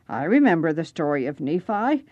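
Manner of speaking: lightly voiced raspy old man; a hint of an old man's rasp. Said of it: "in his raspy old voice".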